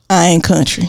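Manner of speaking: drawls I ain't country in a thick Southern country accent. Shown as a demonstration. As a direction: let the Southern country accent come through on every word. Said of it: "never comes out anything but country is it".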